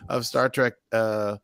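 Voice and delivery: put-on mild southern accent. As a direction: keep the southern accent going, lightly. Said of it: "In my southern accent".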